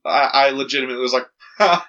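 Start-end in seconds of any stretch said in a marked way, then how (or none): 1.6-1.9 short imitated guffaw, a bit higher; re-enacted guffaw. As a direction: act out one brief guffaw. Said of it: "I had a good guffaw".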